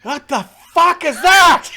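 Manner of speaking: very high, loud shock; shocked shout. Acted. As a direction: yelp it in disbelief. GM as guards, shocked.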